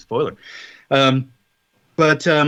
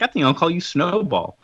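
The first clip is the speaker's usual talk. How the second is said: retold lady's line, pitched a little higher; lightly voiced lady; 4 semitones higher than usual. Lady almost adopting a kitten, lightly voiced role. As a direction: lightly imitate a lady naming her new kitten. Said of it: "this one lady almost takes him".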